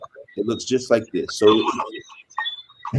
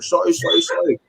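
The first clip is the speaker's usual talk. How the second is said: guy apologizing; 6 semitones higher than usual. Retold or imitated. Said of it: "The guy's like".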